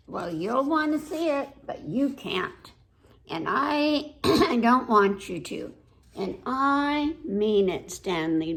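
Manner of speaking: put-on mildly huffy little girl talking to Stanley; lightly voiced little girl. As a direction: read it as a pouting child who won't play.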